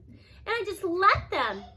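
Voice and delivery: grandma crying over the past. A narrator's reading. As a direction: let it break out in tears, slowly. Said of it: "Gma's crying for real now".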